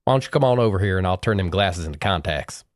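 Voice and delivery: lightly imitated Southern accent; easy mock-threat in a Southern accent; borrowed Southern accent. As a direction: toss out a fighting invitation in a put-on Southern twang. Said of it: "pitch 'em in, in your accent".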